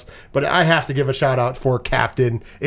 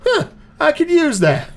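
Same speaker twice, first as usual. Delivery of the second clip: coach voice; 11 semitones higher than usual. Retold or imitated. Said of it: "the coach happens to be there and goes".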